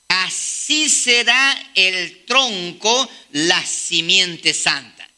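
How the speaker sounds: very slow, drawn-out reading; solemn scripture reading. Acted. Preacher reading the closing verse, slow and solemn. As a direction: savor each word of the promise. Reading Isaiah aloud to congregation.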